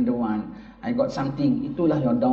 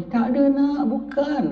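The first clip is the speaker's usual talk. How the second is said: denying father; 10 semitones higher, slower than usual. Retold or imitated. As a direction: wave off the boy's claim. (bapa menafikan dengan tegas)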